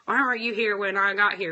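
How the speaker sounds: demanding customer. Acted. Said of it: "versus being like".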